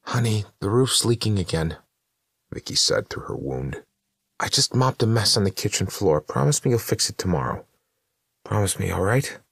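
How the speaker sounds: a dead wife chattering about chores; ghostly wife Vicky, pleading. Acted. Dead wife Vicky speaking eerily.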